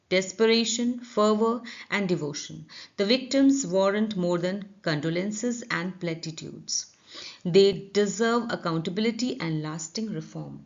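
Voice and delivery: slow, deliberate reading of the passage, word by word; slow editorial read. Shown as a demonstration. Teacher reading the editorial slowly to students.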